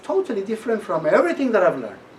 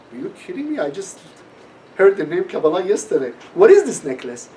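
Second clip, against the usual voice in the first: can't believe the coincidence; amazed disbelief; 3 semitones higher, 5 dB louder than usual. Retold or imitated. Telling the supermarket lady he just heard of it, amazed.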